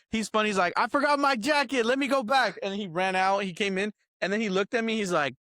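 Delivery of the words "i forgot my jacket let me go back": higher, quick mock-flustered comedian; mock panic. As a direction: play it as a silly fake panic about the jacket. Comedian's bit quoted.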